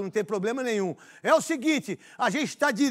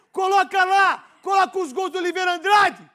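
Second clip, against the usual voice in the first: shouting orders; 4 semitones higher, 5 dB louder than usual. Real, not acted.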